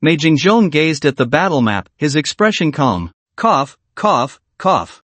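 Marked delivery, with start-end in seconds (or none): 3.4-5.0 a few dry coughs; light coughs. A narrator's reading. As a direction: cough a few times, unhurried. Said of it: "He coughed a few times".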